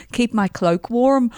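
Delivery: slow imitation of an Irish accent; badly attempted Irish accent. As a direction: quote it slowly in Northern Irish. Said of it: "oh, he's not Irish. Oh, he is Irish".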